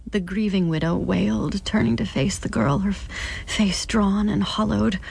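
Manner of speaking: steady, measured audiobook reading; story narration. A narrator's reading. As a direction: lay out the grim scene evenly for the listener. Narration resumes.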